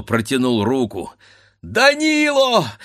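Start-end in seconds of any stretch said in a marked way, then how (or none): 1.7-2.7 much higher, slow drawn-out cry of his name; wife crying out in despair as he reaches for the pistol; desperate scream. Acted. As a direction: throw herself at him with the name. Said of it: "закричала в отчаянии".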